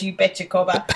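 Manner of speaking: imitated Aussie reply; reply like a put-on Australian; mock Australian twang; Australian accent. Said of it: "Jay is doing that exact thing".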